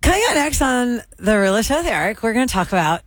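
smiling, teeth shown, lips still; ventriloquist, grinning through teeth; talking without moving lips. Shown as a demonstration. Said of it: "No, you're moving it".

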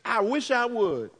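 a hint of a sulking sister, half laughing; sassy attitude. Mary sulking in the house, light mock sass. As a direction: toss it off with a bit of sass. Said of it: "a sister whose attitude is".

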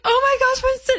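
high, squealing mock gush; gushing excitement. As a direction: gush over the new car. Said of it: "And I was like".

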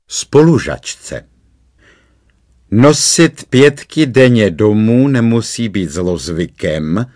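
slow, mock-solemn reciting of a silly poem; savouring every word of the rhyme; amused recitation. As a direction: read the verse out like a pompous amused cop. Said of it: "pobaveně zarecitoval".

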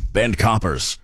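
slow Welsh accent on "bent coppers", stretched out; a light Welsh accent, like the lead actor in Line of Duty. Shown as a demonstration. Radio host imitating the Line of Duty lead, slow Welsh accent. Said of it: "Sorry, I shouldn't be doing accents".

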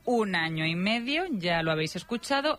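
lively, measured radio script read; radio presenter narration. Real, not acted. Presenter telling listeners the voices are alike, playful radio narration. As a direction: present it with playful, drawn-out emphasis.

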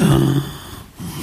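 sharp gasp of awe; retold gasp. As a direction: suck in a breath in amazement. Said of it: "I was like".

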